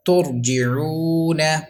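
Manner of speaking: Turji'una drawn out very slowly, thick ra; slow recitation. Shown as a demonstration. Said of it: "read without spell".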